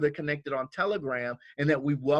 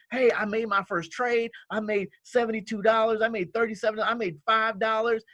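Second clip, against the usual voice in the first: higher, eager reliving of first wins; excited new trader; 5 semitones higher than usual. Retold or imitated. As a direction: imitate a thrilled beginner bragging about small profits. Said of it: "you were so excited because".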